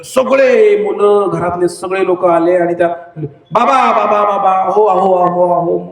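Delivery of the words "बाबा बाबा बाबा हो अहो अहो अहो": mock anxious calling; acted family panic, lightly pitched up; family's alarm. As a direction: call out repeatedly as if rousing a fallen relative. Family cries over fallen man.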